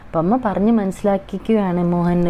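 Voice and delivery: usual speaking voice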